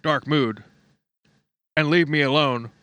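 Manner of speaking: mocking sulky voice. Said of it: "total narcissist bullshit".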